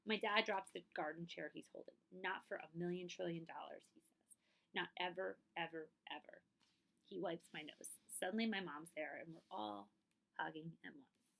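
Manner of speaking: clear, lively storytime voice; reading to children. A narrator's reading. Librarian reading a picture book to children, storytelling voice. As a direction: read it aloud to the kids, gently expressive.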